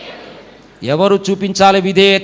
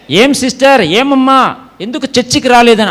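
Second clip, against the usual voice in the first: elder asking; 3 semitones higher, 3 dB louder than usual. Retold or imitated. Voicing an elder checking on a member.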